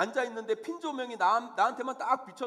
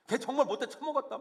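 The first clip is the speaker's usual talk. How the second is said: higher-pitched mock outrage; indignant badmouthing; 5 semitones higher than usual. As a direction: curse someone out as the outraged friend. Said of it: "나보다 더 욕해주잖아요".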